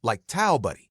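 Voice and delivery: a brisker retake of towel buddy. Shown as a demonstration. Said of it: "No, faster".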